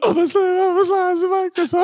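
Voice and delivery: high squealing laugh through words. Real, not acted. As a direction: wheeze it out laughing. Repeating the misheard lyric.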